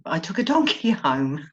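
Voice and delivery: breaking into a real laugh on "donkey home"; laughing confession. Real, not acted. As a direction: let laughter burst in mid-sentence. Cracks up repeating her donkey confession.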